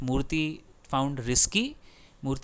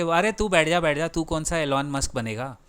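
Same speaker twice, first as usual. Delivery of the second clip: louder, scornful brush-off of an upstart; dismissive put-down; 4 dB louder than usual. Retold or imitated. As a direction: wave him down like a scoffing boss. Imitating dismissive elders putting someone down. (तिरस्कार भरी डांट, "बैठ जा" की नकल)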